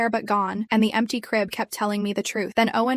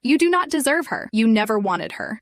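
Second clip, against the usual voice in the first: screaming; 3 dB louder than usual. Acted. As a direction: tear into her. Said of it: "He was screaming now".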